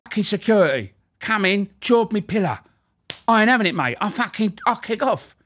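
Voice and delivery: shrill it up like an outraged little inmate; guard mimics a prisoner moaning about his pillow; ranting prisoner. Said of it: "I'll do a good one if you want me to do it".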